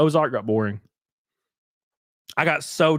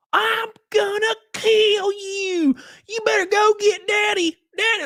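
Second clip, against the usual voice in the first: high, drawn-out, overblown redneck holler; mocking fake redneck drawl pitched way up; fake redneck accent; slower than usual. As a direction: do a ridiculous movie redneck, stretching every word. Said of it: "like, fake redneck accents".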